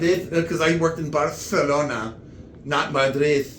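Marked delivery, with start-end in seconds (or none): 0.0-0.3 Madrid with a lisped "th" at the end; Castilian lisp. Shown as a demonstration. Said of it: "Spanish has a lot of lisping". 1.1-2.1 Barcelona with the c lisped as "th"; Castilian lisp. Shown as a demonstration. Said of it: "Spanish has a lot of lisping".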